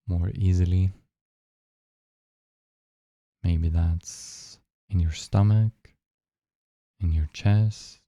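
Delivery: unhurried meditation guide with long pauses; guided meditation. Real, not acted. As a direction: guide listeners gently into the breath, leaving long silences.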